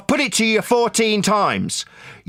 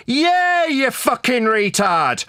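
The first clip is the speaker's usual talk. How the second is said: angry shout; 5 semitones higher, slower than usual. Real, not acted. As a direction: bark it out in anger. Raging at opponent in debate.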